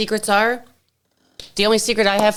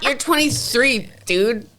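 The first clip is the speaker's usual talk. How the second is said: mock disbelief; 4 semitones higher, slower than usual. Friends mocking young customer.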